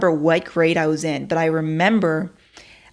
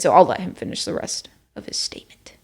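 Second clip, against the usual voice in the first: whispering. Real, not acted. Quiet aside before clip.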